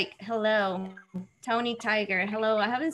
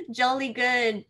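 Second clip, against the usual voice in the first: playful amateur British; British accent. Pretend. Co-host clowning with accents, British accent. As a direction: toss it off in mock British. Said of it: "I'm terrible at, at making, uh, accents".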